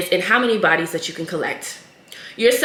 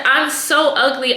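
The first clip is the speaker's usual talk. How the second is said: a touch higher, mock childish plea; lightly voiced little girl; 5 semitones higher than usual. Retelling the girl crying to her mom, lightly higher voice. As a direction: nudge the pitch up like a small girl. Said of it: "And she said".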